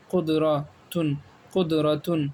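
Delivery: drawn-out syllable by syllable; slow sounding out. Shown as a demonstration. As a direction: stretch قدراتن slowly to teach it. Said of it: "اب رواں پڑھتے ہیں".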